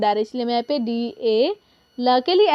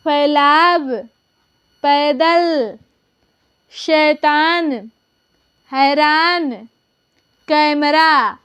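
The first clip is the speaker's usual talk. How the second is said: reading aloud for class; much slower than usual. Shown as a demonstration. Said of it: "चलिए इसे हम direct पढ़ लेते हैं".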